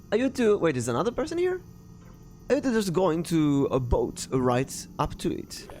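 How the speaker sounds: questioning British character voice; British accent. Acted. British stranger questioning two boaters, in a British accent. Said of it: "this is a British couple now".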